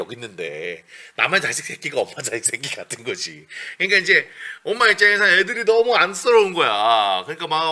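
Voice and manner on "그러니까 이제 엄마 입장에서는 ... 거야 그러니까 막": ordinary talk, nothing marked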